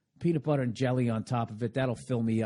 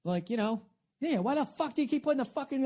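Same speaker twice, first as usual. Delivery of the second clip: mock flip-out; 13 semitones higher than usual. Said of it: "the old me would have flipped out".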